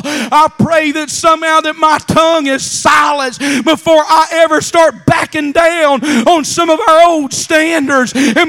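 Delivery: fervent preacher building in force and pitch; full-force preaching. Real, not acted. Preacher vowing never to back down on doctrine, full-force preaching. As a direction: vow it hard, driving through each clause.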